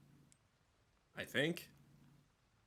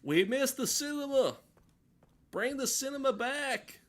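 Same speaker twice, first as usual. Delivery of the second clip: high, loud cry of dismay; excited outcry; 13 semitones higher, 6 dB louder than usual. Pretend. Player in the game shouting that the cinema vanished, high and loud. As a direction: wail it like the show is ruined. Character panics over missing cinema.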